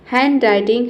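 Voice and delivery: हैंडराइटिंग as "han-writing", no D; silent D. Shown as a demonstration. Teacher introduces the word, silent-D model. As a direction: leave the D out of हैंडराइटिंग. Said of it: "ये होता है".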